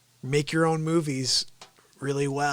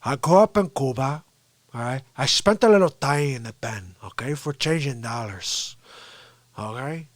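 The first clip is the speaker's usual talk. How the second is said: put-on light Cuban-accented Tony Montana; a hint of Scarface swagger. Comedian doing Tony Montana, lightly Cuban accent. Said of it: "see Antonio Montana".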